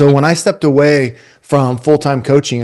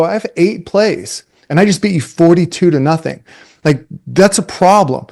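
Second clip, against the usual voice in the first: cocky; 4 semitones higher than usual. Retold or imitated. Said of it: "I go".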